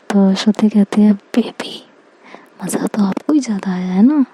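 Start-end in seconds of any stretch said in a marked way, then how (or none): 1.1-4.2 soft, breathy-quiet coaxing; coaxing whisper. Acted. Shruti coaxing Aksh after the honeymoon, in a soft whisper. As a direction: murmur it sweetly to win him over.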